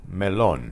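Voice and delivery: melon said me-LON; Spanish melon with the O accented; stress on O. Shown as a demonstration. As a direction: stress the last syllable of melon. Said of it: "there is an accent on the O".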